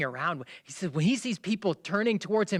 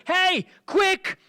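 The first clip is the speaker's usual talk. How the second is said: calling out across the house; urgent high shout; yelling; 7 dB louder than usual. Acted. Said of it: "starts yelling".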